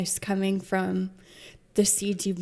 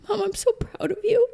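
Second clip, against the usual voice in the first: high, light imitation of a proud daughter; daughter's voice; 12 semitones higher than usual. Daughter on FaceTime praising her mom, high and bright. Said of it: "she's like".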